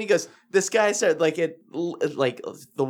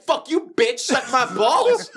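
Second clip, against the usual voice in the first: mock taunt; 8 semitones higher, slower than usual. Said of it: "I said".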